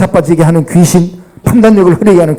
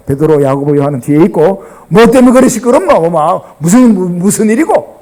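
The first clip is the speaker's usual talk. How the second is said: Gyeongsang dialect. Acted. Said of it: "경상도 버전입니다".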